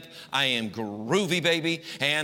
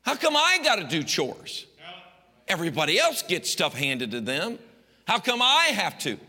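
put-on whiny teen; 3 semitones higher than usual. Whiny teen voiced in sermon.

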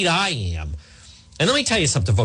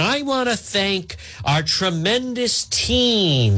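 mocking the doctor; 5 semitones higher, much slower than usual. Mocking Doctor Scott's speech.

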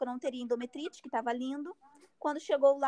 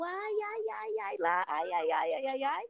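retold pained moans; 4 semitones higher, slower than usual. Patient as the doctor probes inside, retold pained moans. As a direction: run of mock 'ai' moans, high then dropping. Acting out her pain during exam.

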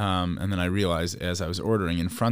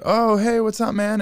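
high-pitched, louder mock hello; imitated hearty greeting; 13 semitones higher, 5 dB louder than usual. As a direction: act out a guy greeting his buddy, pitched way up. Acts out the man's surprised greeting.

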